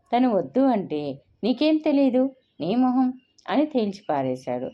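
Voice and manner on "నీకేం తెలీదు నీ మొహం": dismissive retort. Retold or imitated. Father dismisses her objection.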